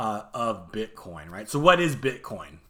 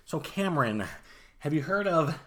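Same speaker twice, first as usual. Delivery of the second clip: imitating techie friend; 4 dB quieter than usual. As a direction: do a hint of your techie pal, dropping quieter at the end. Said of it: "he talks like this".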